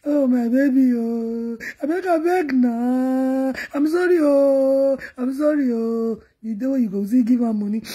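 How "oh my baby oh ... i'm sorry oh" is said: drawn-out, wheedling apology; imitated partner pleading half in tears; mock apologetic pleading. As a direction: beg forgiveness with long, moaned endings. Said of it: "He was say".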